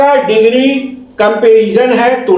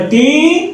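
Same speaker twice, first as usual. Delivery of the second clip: टी drawn out on a rising tune; second syllable alone; 5 semitones higher than usual. Shown as a demonstration. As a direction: sound out टी by itself, stretched. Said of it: "दूसरा syllable". (टी को अलग, खींचकर बोलें)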